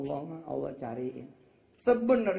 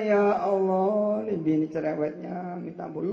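mock prayer complaint; 3 semitones higher, 4 dB louder than usual. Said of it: "eh bilang".

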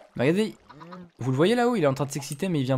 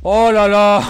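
excited exclamation; 5 semitones higher, 9 dB louder, much slower than usual. Real, not acted. Excited exclaim after lucky event.

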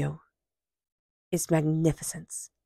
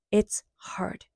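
whisper; 3 semitones higher than usual. Real, not acted. Aside on self-grace.

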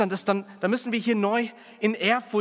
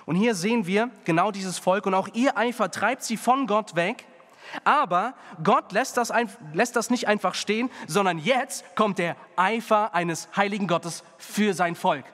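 fervent preaching; 2 semitones higher than usual. Acted. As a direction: preach it out to the congregation. Preaching scripture with fervor.

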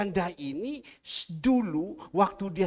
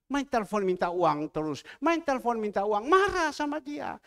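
raised, stern voice of God warning; stern rebuke; 7 semitones higher, 6 dB louder than usual. Retold or imitated. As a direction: rebuke him firmly, building louder. God's voice rebuking in testimony. (teguran keras, suara makin meninggi)

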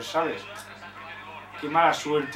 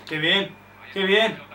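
each one more thrilled; growing delight; slower than usual. Real, not acted. Fan admiring a good play, delight building up.

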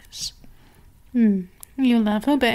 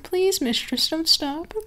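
mock pleading pet; 5 semitones higher than usual. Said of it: "send me the message to say, like".

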